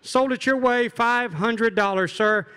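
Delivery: rapid rhythmic auction chant; auctioneer. Acted. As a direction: rattle off bids like an auctioneer. Auctioneer calling bids again.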